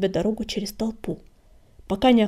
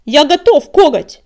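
loud, raised battle cry; fierce, higher-pitched challenge; defiant shout; 4 semitones higher, 14 dB louder than usual. A narrator's reading. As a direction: shout back, ready to fight. Enraged answer to a challenge.

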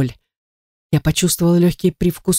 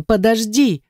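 desperate call; 6 semitones higher, slower than usual. Acted. Calling after him as he leaves.

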